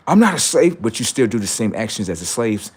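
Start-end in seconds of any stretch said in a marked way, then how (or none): 0.1-0.8 mock protest. Human voice protesting.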